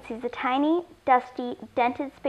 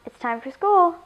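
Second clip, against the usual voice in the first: higher, louder sing-out; calling out; 6 semitones higher, 5 dB louder than usual. Acted. Mom gets daughter up for school, calling out. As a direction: call it through a door. Mom calls through bedroom door.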